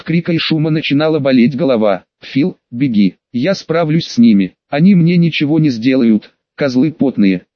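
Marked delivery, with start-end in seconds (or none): none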